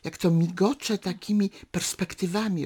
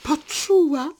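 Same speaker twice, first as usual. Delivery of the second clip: mutter; 9 semitones higher, 7 dB louder than usual. Acted. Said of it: "mruczy stary".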